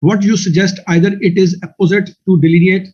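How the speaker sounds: slow, mock-careful reading of a wordy question; slowly reading student's question. Teacher reading student's question, slow and mocking. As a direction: drag it out to show it's overdone. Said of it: "उसने सवाल किया जी".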